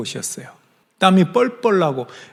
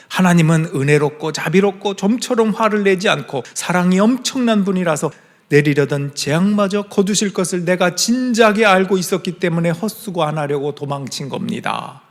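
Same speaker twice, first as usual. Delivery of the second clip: mocking; 3 semitones higher than usual. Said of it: "이렇게 조롱하면서 얘기하는 거예요".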